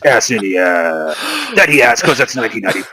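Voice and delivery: hammed-up TV ad pitchman; TV commercial announcer voice. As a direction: sell it like a cheesy commercial. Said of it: "T V commercial announcer voice".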